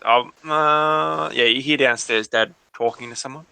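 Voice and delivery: normal talking voice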